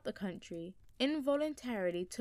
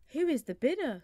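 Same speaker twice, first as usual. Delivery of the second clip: loud, higher auctioneer's call; 6 semitones higher, 6 dB louder than usual. A narrator's reading. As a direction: call it out over the crowd. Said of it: "said the auctioneer".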